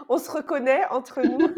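en riant doucement; rire. Real, not acted. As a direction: plaisante entre deux rires. Joking about shared vata. (en riant)

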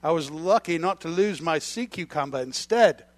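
hammed-up Australian storyteller; mock Australian accent, played for laughs; best Australian accent. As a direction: recount it as a proud Aussie fisherman. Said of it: "in my best Australian accent here".

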